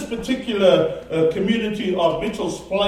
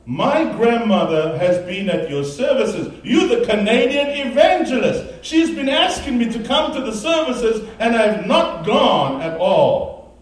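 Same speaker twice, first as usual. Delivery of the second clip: retold amazement, rising high and louder in the middle; astonished; 4 semitones higher, 3 dB louder than usual. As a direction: voice his startled recognition of the evangelist. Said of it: "looked at her with such surprise".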